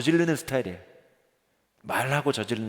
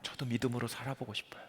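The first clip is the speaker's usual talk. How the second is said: pleading congregant; 3 semitones higher than usual. Acted. Congregant's plea voiced by pastor.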